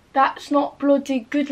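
put-on drawn-out comic British accent; slow it down, put on an accent for bloody; mock accent. Putting on a jokey accent over her phone battery. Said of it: "Why do I keep doing accents?".

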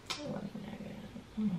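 whispered attempt to convince yourself; dismissive self-consolation. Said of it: "what I was trying to do to myself".

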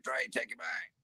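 mock whispered plea; whispered repeat. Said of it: "and say".

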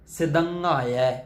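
ਸਿਦੰਘਾਇਐ said syllable by syllable with the nasal ng; careful pronunciation. Shown as a demonstration. Teacher assembling the hard word ਸਿਦੰਘਾਇਐ for learners. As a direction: put the word back together clearly. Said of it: "ਇਹ ਜਿਹੜਾ ਸ਼ਬਦ ਹੈ ਸਿਦੰਘਾਇਐ".

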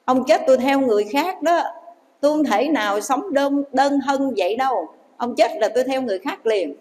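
a touch of a sour-tongued wife; sharp-tongued wife. Acted. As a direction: toss it off like a cold, mercenary wife. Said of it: "Bà này sao bà chanh chua".

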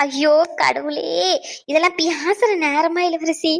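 very slow, drawn-out wail; anxious lament. Acted. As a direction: stretch it out like a worried mother lamenting. Worried mother, son not answering phone. (கவலையோடு புலம்பலாக)

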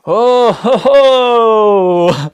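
high, loud staged chuckle; hammy jolly laugh. Retold or imitated. Relative in the music video greeting the singer, a loud hammy laugh. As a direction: ham up a stiff jolly laugh. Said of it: "the next guy who's like".

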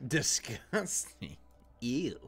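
very slow mock disgust; drawn-out disgust. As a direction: drag the word out grossed out.

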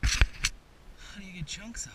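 slow, loud, puzzled question. Real, not acted. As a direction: call it out, drawn out and baffled. Puzzling over the ice.

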